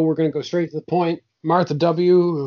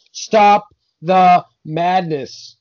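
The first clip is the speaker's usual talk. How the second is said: slow, emphatic, loud proclamation; outraged review; 5 dB louder, much slower than usual. Acted. Co-host reading an indignant one-star movie review, slow and emphatic. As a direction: punch each word slowly, mock-outraged.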